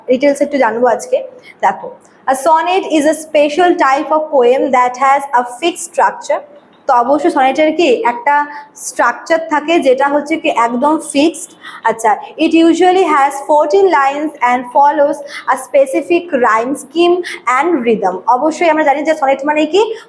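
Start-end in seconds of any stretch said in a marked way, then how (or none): 2.3-6.4 slow, deliberate English reading, word by word; slow dictation reading. Shown as a demonstration. Teacher slowly reads English definition. 12.4-18.2 slow, deliberate English reading, word by word; slow dictation reading. Shown as a demonstration. Teacher slowly reads English definition.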